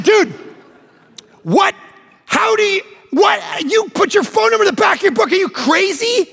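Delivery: incredulous outburst. Retold or imitated. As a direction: yell your shock at the crazy idea. Disbelief at phone number.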